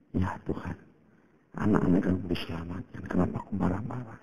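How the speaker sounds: soft, remorseful murmur to God; hushed prayer. Retold or imitated. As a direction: pray under your breath, ashamed. Retelling his own remorseful prayer.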